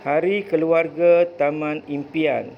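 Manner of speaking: title read out clearly with a falling close; expressive reading aloud. Shown as a demonstration. Teacher reading the title aloud to pupils, expressive. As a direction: announce the story title to the class. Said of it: "dengar apa yang cikgu baca".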